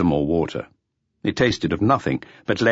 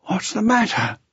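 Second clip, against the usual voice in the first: thick voice. A narrator's reading. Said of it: "asked in a thick voice".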